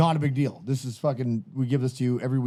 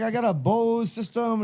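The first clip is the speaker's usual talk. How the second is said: slow, higher mock Spanish accent; 7 semitones higher, slower than usual. Imitating the party guy bragging in mock Spanish accent. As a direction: drag it out in a hammed-up Spanish accent. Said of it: "Is that a good Spanish accent".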